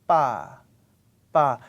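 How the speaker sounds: pa held tight with no puff of air; tensed pa. Shown as a demonstration. Teacher demonstrating tensed pa. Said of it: "and this one is".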